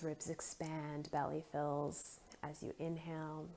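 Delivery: soft, unhurried breathing guidance; guided meditation. Acted. Guide inviting listeners to breathe deeply, gentle meditation voice. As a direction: ease them through each breath with long pauses. Leads slow breathing exercise.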